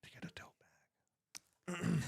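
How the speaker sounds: hushed pledge-drive plug; soft public radio fundraiser voice; public radio host. Pretend. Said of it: "my public radio voice".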